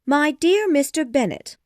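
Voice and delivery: animated wife character voice; eager wife. A narrator's reading. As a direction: voice an eager wife calling her husband. Wife addresses husband in story.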